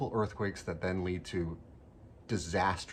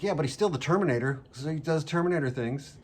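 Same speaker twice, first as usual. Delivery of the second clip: excited insistence; 8 semitones higher, 7 dB louder than usual. Retold or imitated. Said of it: "And I'm like".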